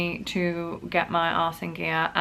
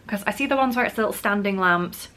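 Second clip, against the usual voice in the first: whisper; 3 semitones higher than usual. Real, not acted. Unvoiced line.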